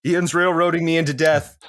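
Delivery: high-pitched grievance, half in jest; indignant complaint. Real, not acted. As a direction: protest to the table that you are being wronged. Player complains of unfair ruling.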